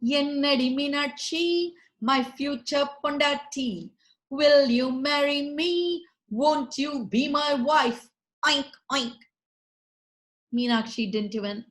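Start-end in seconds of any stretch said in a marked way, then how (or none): 0.0-8.1 hammy pig suitor, a touch louder; pig proposing. Acted. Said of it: "licking his chops, knelt down". 8.5-9.2 nasal pig grunting oink oink. Acted.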